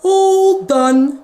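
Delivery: chirpy relief; cheerful vet. Acted. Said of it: "he said".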